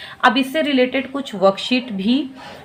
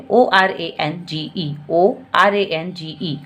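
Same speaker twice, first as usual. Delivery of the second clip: each letter of "ओ आर ए एन जी ई" said slowly and apart; slow letter spelling; 3 semitones lower, much slower than usual. Shown as a demonstration. Teacher spelling a word for small children, slow. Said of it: "अलग-अलग टुकड़े में बच्चे को पहले sound करिए".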